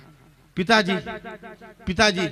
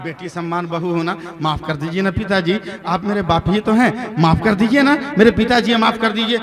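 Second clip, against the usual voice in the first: pleading; 4 semitones lower, 4 dB quieter than usual. Acted. Bride keeps pleading.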